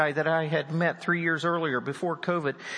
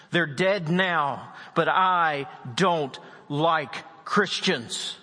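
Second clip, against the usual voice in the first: retold yell; 3 dB louder, slower than usual. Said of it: "he began to yell at me".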